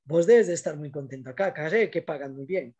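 lightly sarcastic compliment, a touch of irony; mild teasing sarcasm; a little sarcastic. Retold or imitated. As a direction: tease the listener about the pay, gently. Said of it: "soy hasta sarcástico un poquito".

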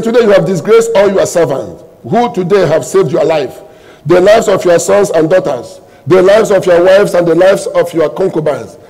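forceful, rhythmic Bible reading; scripture reading. Acted. Preacher reads Joab's rebuke of the king, forceful declamation.

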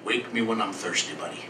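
lightly imitated Southern cowboy; sleepy-cowboy Southern imitation; Southern accent. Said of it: "He had a southern accent".

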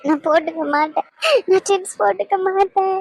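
sobbing refusal that turns into begging; weeping, desperate for news of Rocky; crying and pleading. Acted. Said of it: "இப்ப எதுக்கு அழுதுகிட்டு இருக்க நீ?". (அழுதுகொண்டே கெஞ்சுதல்)

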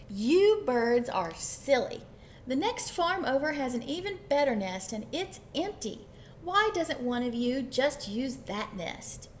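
lightly voiced, emphatic cat; mildly exasperated cat; scolding storybook cat. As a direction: lightly play a cat talking sense to silly birds. Cat lectures the birds.

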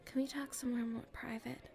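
hushed and secretive, keeping it private; nervous confiding whisper; shy whisper. Acted. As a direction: whisper so nobody around can hear.

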